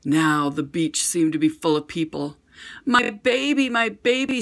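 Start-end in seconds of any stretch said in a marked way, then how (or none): 2.9-4.4 put-on high, anxious calling of her child; a scared mother snatching up her baby; mother's frantic cry. A narrator's reading. Mother finding her baby on the beach, frantic high cry. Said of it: "screamed a woman".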